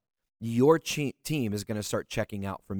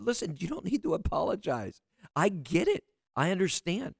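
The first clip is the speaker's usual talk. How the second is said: retold reassurance; 6 semitones higher than usual. Coach telling an upset client not to apologize, reassuring. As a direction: gently let them off the hook, voice lifted.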